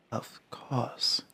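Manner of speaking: put-on high, slow, hushed old Varl; creaky elder giant, slow and soft. Voices old Varl character.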